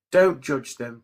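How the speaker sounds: ordinary talk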